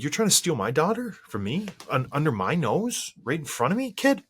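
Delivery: put-on half-playful tough-dad challenge, pitch jumping high on kid; mock attitude. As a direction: needle the boy like a protective father, not too seriously. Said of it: "giving him a little bit of an attitude".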